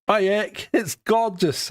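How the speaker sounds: a hint of Japanese accent. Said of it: "in his Japanese accent".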